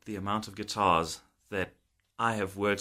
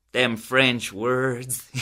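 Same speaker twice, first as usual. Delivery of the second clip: laughing grumble; much slower than usual. Retold or imitated. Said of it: "I was like".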